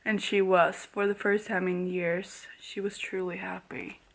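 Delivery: reading it in a soft near-whisper; hushed reading. Acted. Reading Selena's happy moment, softly hushed. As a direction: let it fade to a hush.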